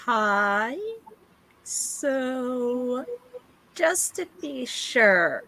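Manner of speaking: lightly voiced suspicious kid; wary child. Child challenging the spellcaster about a trick, lightly voiced wariness. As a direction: question the stranger warily.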